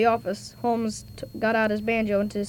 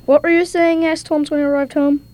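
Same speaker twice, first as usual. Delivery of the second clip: loud reading; 5 semitones higher, 7 dB louder than usual. Acted. Child reads Holmes loudly.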